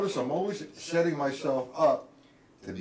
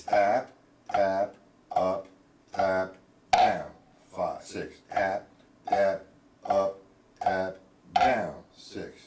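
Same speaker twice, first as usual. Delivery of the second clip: sticking called in rhythm; 6 semitones lower, much slower than usual. Shown as a demonstration. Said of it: "So write that out".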